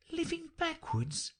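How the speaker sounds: high, amazed echo; Alice can hardly believe it, very high pitched; astonished. A narrator's reading. Alice echoing the Queen, astonished. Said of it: "in great astonishment".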